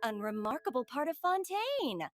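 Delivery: announcer voice. Shown as a demonstration. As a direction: announce it like breaking news. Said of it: "I'm gonna try this announcer voice".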